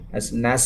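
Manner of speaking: "Nas, nas" with a sharp hissing s; clear s sound. Shown as a demonstration. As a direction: hiss the s in "Nas, nas". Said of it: "tadi sinnya balik lagi".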